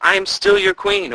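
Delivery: very high, loud spectral call; ghostly call. A narrator's reading. The vanished queen calling to guards, ghostly cry. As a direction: cry out from beyond. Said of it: "a woman's voice called out".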